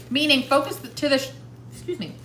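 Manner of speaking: talking through peanut butter; words round a sticky mouthful; mouth full. Real, not acted. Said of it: "really hard to talk with peanut butter in my mouth".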